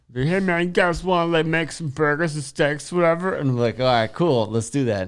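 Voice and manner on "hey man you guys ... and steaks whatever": high-pitched cartoon frog puppet voice. Retelling what a guy said to the speaker and friends, in a Kermit the Frog voice. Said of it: "he had talk like Kermit the Frog".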